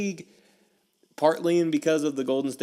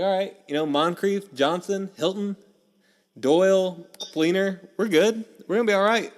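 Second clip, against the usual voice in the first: hopeful excitement; 7 semitones higher, 3 dB louder than usual. Retold or imitated. Hopeful roster count before draft.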